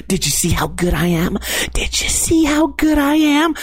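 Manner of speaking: hushed, then rising to a bragging coo; breathy brag into a friend's ear; mock whisper. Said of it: "whisper into his ears".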